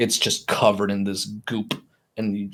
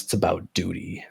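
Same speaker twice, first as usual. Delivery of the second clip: low-key wheezy creature voice, softer; wheezing creature; 3 semitones lower, 6 dB quieter than usual. Acted. Game master voices the gilled ghoul speaking, wheezy and soft. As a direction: squeeze the words out like a wheezing ghoul. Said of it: "feel the wheeze as it inhales".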